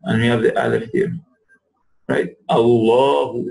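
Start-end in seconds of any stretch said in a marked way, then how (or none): 2.5-3.5 "Allahu" with h from the throat; "Allahu" throaty h. Shown as a demonstration. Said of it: "it comes from the bottom of throat".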